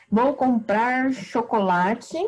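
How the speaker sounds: slow, deliberate dictation with a rising end; slow teacher example. Shown as a demonstration. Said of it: "Por exemplo".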